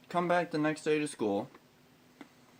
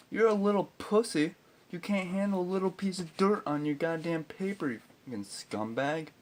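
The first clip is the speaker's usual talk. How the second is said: mocking insult rant; 4 semitones higher than usual. Ranting at the absent teacher.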